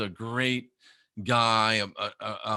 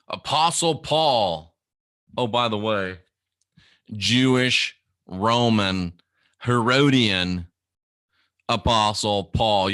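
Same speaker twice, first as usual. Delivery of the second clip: loud preacher emphasis; 6 dB louder, slower than usual. Acted.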